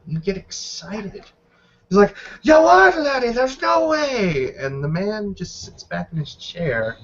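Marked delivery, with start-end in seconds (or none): 2.4-4.5 incredulous outburst. Acted. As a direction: cry out in amazement, then stretch the disbelief out. Character stunned by the win.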